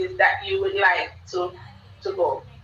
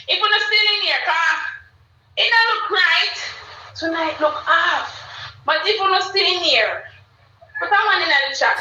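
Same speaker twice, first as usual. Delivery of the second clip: raised, excited call to the chat; 6 semitones higher than usual. Real, not acted. Host calling on absent viewers to check in, excited. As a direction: sing it out to the viewers, pitched up.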